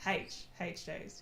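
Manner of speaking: H said as "haitch"; "haitch" for H, demonstrated for a listener; Australian haitch. Shown as a demonstration. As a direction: start the letter H with an audible h. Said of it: "Say H again?".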